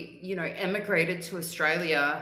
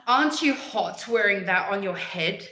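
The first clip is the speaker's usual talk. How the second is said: lightly voiced nosy Karen, louder; imitated Karen; 3 semitones higher, 6 dB louder than usual. Woman at the post office questioning a hijab, imitated Karen. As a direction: imitate an intrusive stranger's pointed question. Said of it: "like, one of these women".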